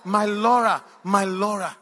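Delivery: loud drawn-out wail, fading; mock crying. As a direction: wail it out like a lovesick crier, easing off. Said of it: "I started crying".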